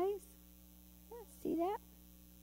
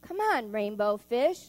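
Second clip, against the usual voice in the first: calling out; 4 dB louder than usual. Acted. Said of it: "they would call".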